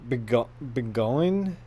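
slow, halting attempt at "Begoin"; struggling pronunciation. Real, not acted. Streamer stuck on a name from the game, struggling to pronounce it. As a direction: sound out "Begoin" slowly, unsure of it. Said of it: "I'm struggling with this name".

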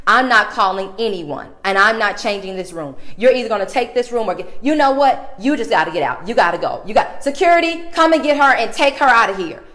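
retold clerk screaming to have her removed; imitated clerk shouting. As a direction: build to a furious holler. Clerk yelling for security.

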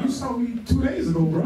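imitating George. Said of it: "he be like".

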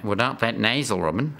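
lightly mimicked Australian accent. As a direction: put on a mild Australian accent. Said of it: "he mimics ours better than just about anybody else".

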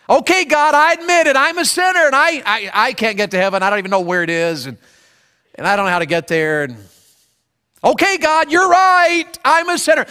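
pleading prayer. Acted. Sinner's prayer acted aloud.

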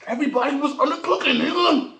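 speaking between bites; talking while chewing. Real, not acted. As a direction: mouth partly full of food. Seen 2: big forkful at -1.0, lips pressed and chewing between phrases.

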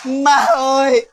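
slow crying protest; tearful whine. Acted. Wife whines to mother-in-law she can't drink, crying. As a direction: drag it out weepy.

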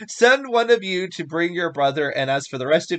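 measured, emphatic reading of a Bible story; scripture reading. A narrator's reading. Reading Genesis aloud to listeners, emphatic scripture reading. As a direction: read it out with clear, weighty stresses.

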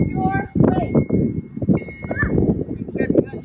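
put-on playful squeak for the kids; squeaky high voice.

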